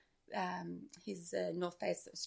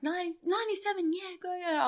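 mock cheer; 10 semitones higher, 3 dB louder, faster than usual. Crowd calling her race number.

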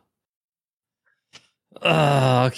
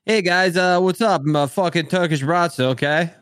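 character voice; 3 semitones higher than usual. Pretend. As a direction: sell it like a brash New York cop. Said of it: "act like I'm on the toilet going".

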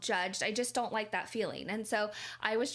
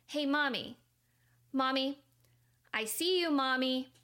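put-on higher, light small-boy voice; a child telling his ignoring mom he sees her; little boy calling; 4 semitones higher than usual. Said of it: "and he goes".

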